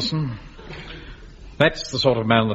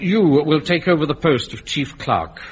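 slow; 3 semitones higher than usual. Acted. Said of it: "I said".

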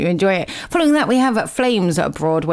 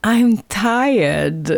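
put-on like a five-year-old. Host on air mimicking herself, sulky child voice. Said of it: "like a five-year-old".

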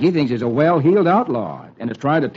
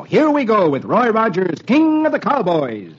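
announcer intro; 5 semitones higher than usual. Acted.

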